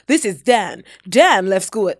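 put-on ad voiceover in an American accent. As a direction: announce it like a US promo video. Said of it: "I don't know why I'm doing American accent".

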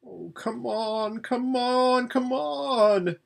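impatient hurrying call. Acted. Urging the others awake.

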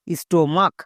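"স্টোমাক" ending in a hard K; "স্টোমাক" with final ch sounded as k. Shown as a demonstration. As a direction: say "স্টোমাক" as sto-mak. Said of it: "সিএইচ এর জন্য কো উচ্চারণ হয়েছে".

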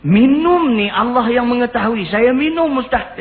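high, insistent voice of a confessing youth; acted confession. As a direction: imitate a distressed young man confessing, pitched high.

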